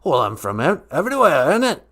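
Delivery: put-on spirit with a vague, wandering accent; Great Spirit character. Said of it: "accent is from".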